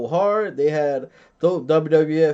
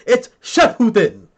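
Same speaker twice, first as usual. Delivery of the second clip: loud, drawn-out outraged correction; mock-furious, higher and slower; mad nerd correcting; 5 semitones higher, 6 dB louder than usual. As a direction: imitate a pedant exploding over a mispronunciation. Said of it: "he would get so mad".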